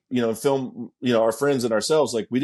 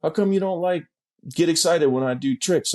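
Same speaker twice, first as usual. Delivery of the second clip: lightly voiced sweet, higher plea; sweet, mild imitation; 3 semitones higher than usual. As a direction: imitate a buddy gently asking. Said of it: "it was real sweet".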